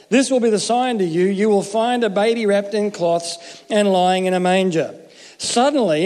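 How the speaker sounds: steady read-aloud of the Bible passage; scripture reading. Acted. Preacher reading Luke to the congregation, measured scripture reading.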